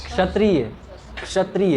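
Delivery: क्षत्रिय with quick light k before sh; demonstrated ksh pronunciation. Shown as a demonstration. Teacher says it on a student's request, k-sh onset. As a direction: model "kshatriya" as a careful demo. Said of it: "फिर से बोलिए तो sir".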